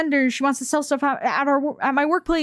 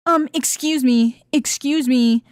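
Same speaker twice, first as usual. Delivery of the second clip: mock pissed; 3 semitones higher, slower than usual. Vendor snapping fingers at worker, mock irritated summons. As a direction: imitate a demanding customer calling someone back. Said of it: "She starts getting all pissed at me".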